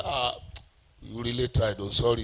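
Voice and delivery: soft, sympathetic murmur; quietly commiserate, imitating a pitier; mock pity. Someone pitying a person who treks to and fro, softly sympathetic. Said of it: "people's pity can't change your story".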